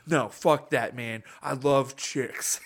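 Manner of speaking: mock angry protest, slowing at the end; imitated offended insistence; imitating pissed-off man. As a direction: act out his indignant denial, drawing out the last words. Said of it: "this guy was fucking pissed".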